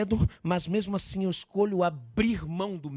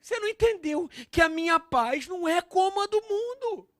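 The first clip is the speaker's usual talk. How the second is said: higher, unshouted, chiding plea; Jesus reasoning; 8 semitones higher than usual. Acted. Jesus explaining his peace to Peter, high pleading reproof. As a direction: reason with him, pitch climbing. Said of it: "Jesus fala".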